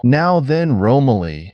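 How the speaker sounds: grab his attention down the table; emphatically. A narrator's reading. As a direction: genial host calling out emphatically. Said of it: "he said emphatically".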